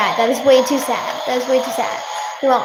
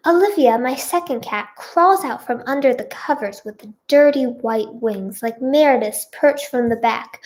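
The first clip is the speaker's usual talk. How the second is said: measured, clearly projected storytelling; story narration. A narrator's reading. Reader tells her own story to listeners, narrating. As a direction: read it out like an audiobook. Back into character, reading story.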